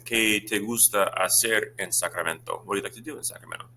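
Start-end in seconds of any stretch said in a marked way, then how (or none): 0.1-2.6 slow teacher model. Shown as a demonstration. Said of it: "I might say".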